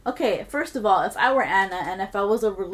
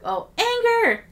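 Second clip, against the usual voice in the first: high, drawn-out dramatic yell; full shout; 7 dB louder, slower than usual. Acted. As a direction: belt it out, much higher and louder. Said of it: "she shouted back".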